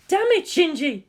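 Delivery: angry shout. Acted. Ritsuko yelling at Shinji for showing off, furious. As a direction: snap his name out in anger. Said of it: "Ritsuko shouted".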